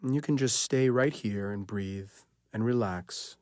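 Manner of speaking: unhurried relaxation guidance with long pauses; guided meditation. Acted. Leads guided sleep relaxation.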